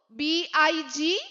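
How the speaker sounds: letter by letter, very slow; drawn-out spelling drill. Shown as a demonstration. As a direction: spell it out slowly for children. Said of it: "ഒരിക്കൽ കൂടി നമുക്ക് പറയാം".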